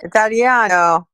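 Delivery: put-on slow, drawn-out Italian accent. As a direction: say it like a proud Italian. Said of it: "throw in that Italian accent for you".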